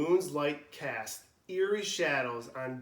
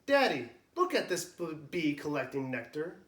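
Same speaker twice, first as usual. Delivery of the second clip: excited. Acted. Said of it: "Jason cries excitedly".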